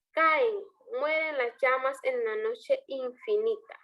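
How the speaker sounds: verse reading with a break after "Caen"; pause after "Caen". Shown as a demonstration. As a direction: set "Caen" apart, then read "mueren las llamas en la noche infinita" as one phrase. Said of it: "¿Dónde estaría ahí el, la pausa?".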